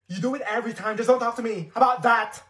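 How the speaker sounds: fed up, punch the last line; annoyed snap. Acted. Girl fed up with her friend, snapping.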